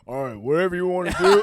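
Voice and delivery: high, loud, fast carefree parent, laughing through it; white parent voice. Retold or imitated. Easygoing parent giving the kid free rein, loud, high and laughing. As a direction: rattle it off like a dad who doesn't care. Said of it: "they sound like".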